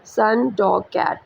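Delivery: सन, डॉग, कैट with no break inside any word; in one flow. Shown as a demonstration. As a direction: run through सन, डॉग, कैट, one beat each. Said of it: "आप नहीं stop हो रहे".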